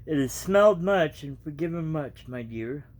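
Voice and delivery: reading a storybook aloud, evenly; casual storybook reading; story narration. A narrator's reading. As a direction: tell the tale to your viewers.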